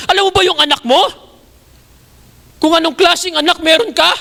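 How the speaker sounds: rising, insistent accusing questions; confronting rebuke. Retold or imitated. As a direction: press her with each question. Confronting the mother by message. (mariing panunumbat na tanong)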